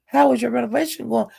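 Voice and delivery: high mock-innocent question; squeaky "how was your renovation going?"; imitating Jay Will. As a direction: ask it way up high, hurt and innocent. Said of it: "Jay Will said".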